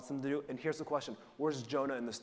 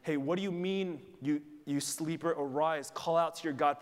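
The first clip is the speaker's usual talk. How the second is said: louder and higher, a hammed-up call to wake up; captain rousing Jonah; 4 semitones higher, 5 dB louder than usual. Captain waking the sleeping prophet, loud call. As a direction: bark him awake like a ship's captain. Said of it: "The captain goes to him".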